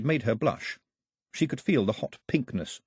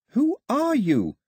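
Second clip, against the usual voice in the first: higher, slow questioning of the empty air; asking the air; 14 semitones higher, 4 dB louder, slower than usual. A narrator's reading. Daphne asks the empty air who speaks, slowly. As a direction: ask slowly into the emptiness. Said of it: "she asked the air".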